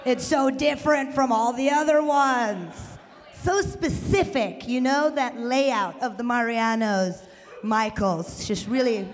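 drawn-out mock knowing enthusiasm; mock recognition. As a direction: gush slowly, as if hugely impressed. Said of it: "y'all like".

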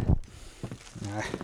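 breathy hushed whisper. Acted. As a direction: drop to a whisper. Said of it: "whispered repeat".

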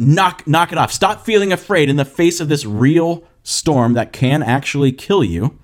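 impatient, dismissive telling-off; mock scolding. Shown as a demonstration. Jesus wrongly imagined rebuking fear in a real storm, impatient scolding. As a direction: order them briskly to quit it. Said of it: "It wasn't".

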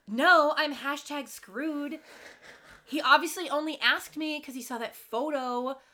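lightly acted dismay, stretching the key words; imitated dismay. Recapping Shay denying her luck, mock dismay. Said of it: "Shay immediately goes".

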